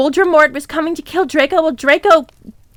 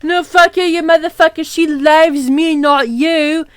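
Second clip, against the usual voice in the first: mildly shouted rivalry; hammed-up quarrelling retort; mock shout. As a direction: shout back, without full force. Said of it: "shouted Vampire".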